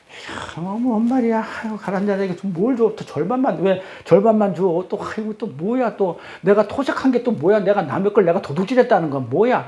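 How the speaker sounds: mock bewildered grumble, starting on a sigh; baffled reader. Preacher voices a reader lost in literal scripture, mock bewildered. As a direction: act out someone muddled and put off. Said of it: "막 어지러우니까는".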